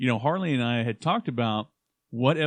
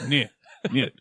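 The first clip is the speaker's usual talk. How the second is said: put-on Russian accent. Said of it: "He's like".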